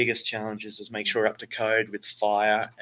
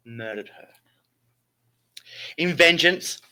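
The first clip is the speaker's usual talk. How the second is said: grand theatrical storytelling; Shakespearean voice; 3 dB louder than usual. Acted. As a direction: read it like an old stage tragedy. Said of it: "I have to put my best Shakespearean voice".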